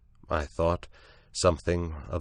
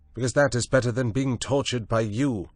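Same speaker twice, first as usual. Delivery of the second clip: higher, bitter defiant retort; bitter defiance; 6 semitones higher, 3 dB louder than usual. A narrator's reading. Prendick hurls his bitter answer at Moreau, defiant. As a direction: spit it at him.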